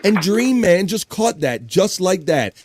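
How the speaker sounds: high, slow-rolling hype call; excited announcement. Real, not acted. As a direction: stretch out the big catch. Host announces who caught gift.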